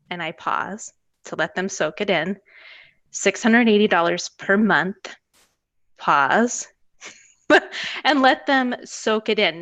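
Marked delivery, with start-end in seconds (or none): 3.1-5.1 "six hundred eighty dollars per month" stated level and falling; firm, no upturn. Shown as a demonstration. Tutor quoting price to parent, firm and falling. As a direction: quote the price flat and sure, not asking. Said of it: "Notice that my voice didn't go up".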